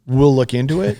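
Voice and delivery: disbelieving rising repeat of We'll look into it; incredulous echo. Retold or imitated. Thinking back at the CIA director, incredulous. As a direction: toss the words back in disbelief. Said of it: "in my head, I'm thinking".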